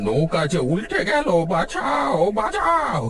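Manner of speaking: high, panicked calls of help; desperate cries for help. Acted. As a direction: scream for help as the boat tips. Boat capsizing, calling help.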